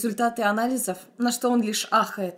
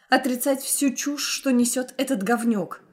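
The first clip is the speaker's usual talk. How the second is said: plain reading voice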